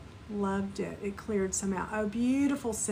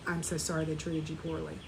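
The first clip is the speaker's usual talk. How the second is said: the same line again, lower and softer; softer, lower repeat; 5 semitones lower, 7 dB quieter than usual. Shown as a demonstration. Teacher models the softer echo the students repeat. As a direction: say it back gently and quietly, to yourself. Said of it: "Now you repeat back".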